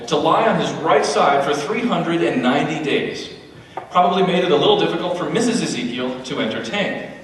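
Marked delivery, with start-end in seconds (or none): 4.5-7.1 hostess voice. Acted. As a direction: welcome the guests like an overeager wife. Mrs. Ezekiel greeting guests.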